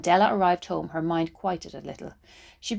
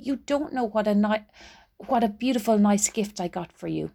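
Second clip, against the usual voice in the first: pleading Della; 3 semitones higher than usual. Acted.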